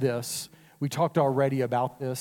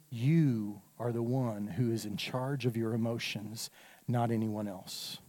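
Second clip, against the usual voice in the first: quiet solemn reminder; 4 semitones lower, 8 dB quieter than usual. Acted.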